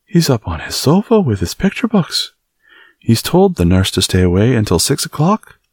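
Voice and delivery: puzzled maid voice; Martha voiced. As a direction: Martha the Yorkshire maid, amazed at the news. Martha's voice, reading aloud.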